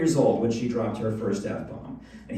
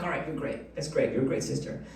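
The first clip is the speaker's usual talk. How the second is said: much softer, gentle praise; soft placating; 8 dB quieter than usual. Retold or imitated. Dad softly praising daughter to avoid a scene. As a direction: quietly soothe the child. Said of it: "So I'm just like".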